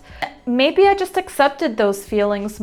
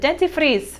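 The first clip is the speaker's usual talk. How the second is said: put-on higher-pitched word in a Spanish accent; 5 semitones higher than usual. Showing how she said toothpaste to somebody, Spanish accent. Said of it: "said it in a Spanish accent".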